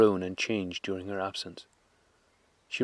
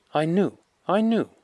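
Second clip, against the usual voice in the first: much higher, louder, slow happy cry; a boy crying out his favorite phrase; excited cry; 10 semitones higher, 5 dB louder than usual. A narrator's reading. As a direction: son to his returned mother. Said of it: "he cried".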